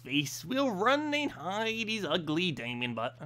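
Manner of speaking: swooping, drawn-out quest character; put-on storybook voice; weird character voice. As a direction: ham it up as a game dwarf. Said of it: "a lot of weird voices to go do".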